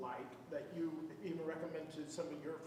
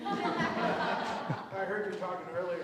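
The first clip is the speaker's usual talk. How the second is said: laughing through words; 2 semitones higher, 8 dB louder, much slower than usual. Real, not acted. Laughing while speaking.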